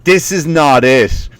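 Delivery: slow, deliberate catchphrase; mock social-media scold. Comic mimicking social media line, slow mock disapproval. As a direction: parody a disapproving commenter slowly. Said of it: "social media line".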